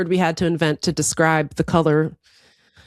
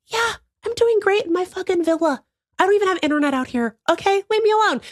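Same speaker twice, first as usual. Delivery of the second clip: smug; 10 semitones higher than usual. Pretend. Imagined future self in villa.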